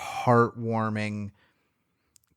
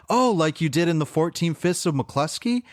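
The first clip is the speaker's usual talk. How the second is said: higher, eager retold question; excited fan recognition; 6 semitones higher than usual. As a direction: imitate a fan making a delighted connection. Acts Jay's delighted fan recognition.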